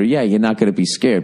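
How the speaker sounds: usual speaking voice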